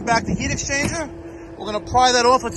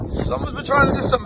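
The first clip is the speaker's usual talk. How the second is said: high squeaky mocking repeat; mocking falsetto; faster than usual. Real, not acted. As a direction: echo the line in a silly high voice. Mocking high repeat of own line.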